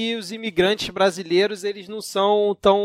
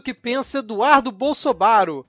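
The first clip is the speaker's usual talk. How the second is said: a lightly voiced pastor reading, a bit higher; preacher Malafaia voice; 5 semitones higher than usual. Shown as a demonstration. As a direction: read it like a TV preacher, lightly hammed. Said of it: "você tem que ler o tweet com a entonação correta". (imitação leve de pastor pregando, um pouco mais agudo)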